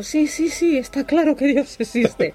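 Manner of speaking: high, hurried-sounding placating reply, imitated; humouring agreement. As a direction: mimic humouring someone in shock. Acting her humouring reply to Daniel.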